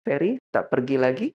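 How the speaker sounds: calm, measured question; composed acted spouse holding back annoyance; controlled tone. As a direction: keep the voice down and ask evenly. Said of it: "dia ngatur nadanya".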